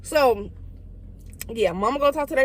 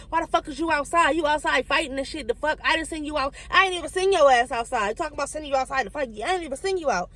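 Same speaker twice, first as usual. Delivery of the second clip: mama scolding; 4 semitones higher than usual. Retold or imitated. Mama hitting and scolding her.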